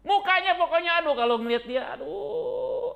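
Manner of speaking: high, loud laughing exclaim. Real, not acted. Pastor laughing recalling the rival's face, loud laugh. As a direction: crack up at the memory. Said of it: "laughing at the memory".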